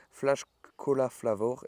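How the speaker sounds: slow English read with a French accent. Real, not acted. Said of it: "Excusez-moi pour, euh, mon accent".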